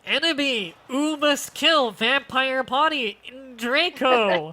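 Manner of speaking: pinched-nose newscaster voice; plugged-nose voice. Retold or imitated. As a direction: hold your nose and read like a newscaster. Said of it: "plug nose voice ... Newscaster voice".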